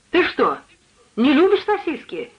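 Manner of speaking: surprised cook, rising high on the question; exclaimed. A narrator's reading. Cook sees lodger grimace at sausages, exclaiming. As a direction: exclaim it in mild disbelief. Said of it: "воскликнула".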